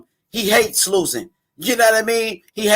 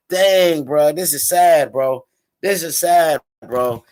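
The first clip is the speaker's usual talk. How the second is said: mock sad sigh; 7 semitones lower, slower than usual. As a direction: drop the voice low and draw out each bro. Reacting to the crying, defeated boxer.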